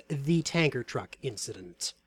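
"the" set apart with emphasis, like a title; stress on THE. Shown as a demonstration. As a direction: lean on "the" as if capitalized. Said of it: "Notice "the" is capitalized".

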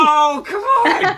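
high, drawn-out whine of protest; loud protest. Real, not acted. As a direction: complain loudly, stretching it out. Protesting the withheld answer.

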